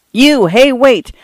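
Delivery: urgent, high-pitched narrated yell. A narrator's reading. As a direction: call after someone running away. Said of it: "he yelled".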